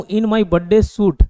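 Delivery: very slow "In my birthday suit", leaning on "birthday"; slow emphatic. Shown as a demonstration. Teacher slowly gives students the idiom example. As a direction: drag it out slowly to land the joke. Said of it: "लेकिन बोलूँ".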